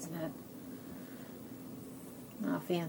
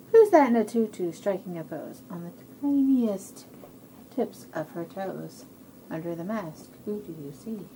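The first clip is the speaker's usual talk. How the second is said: put-on reading to children; 2 semitones lower than usual. A narrator's reading. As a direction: start bold, then draw them into guessing. Reads guessing rhyme to children.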